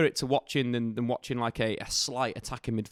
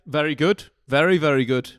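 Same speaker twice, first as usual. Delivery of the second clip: surprised; 3 semitones higher, 8 dB louder than usual. Real, not acted. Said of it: "I don't sound quite as surprised".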